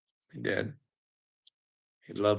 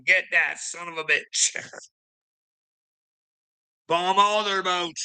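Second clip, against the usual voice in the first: higher, slow mock voice of God cheering; mocking God's voice; 6 semitones higher, slower than usual. God smiling down at Trump, higher slow mocking voice. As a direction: ham up a gleeful God egging Trump on. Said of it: "God's fucking smiling up there going".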